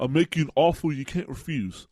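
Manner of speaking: put-on light Brooklyn mobster accent, a hint only; a mild Brooklyn tough-guy line, lightly done; understated Brooklyn gangster accent. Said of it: "that's my best Brooklyn accent".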